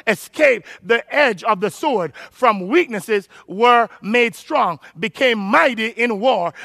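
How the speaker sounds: emphatic, deliberate preacher reading; scripture reading. Acted. Preacher reading the verse to the congregation, slow and emphatic. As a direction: read it out slowly, phrase by phrase.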